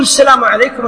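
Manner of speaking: leading salam; imam's salam. Shown as a demonstration. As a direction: give the salam as the leader. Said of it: "هو يقول".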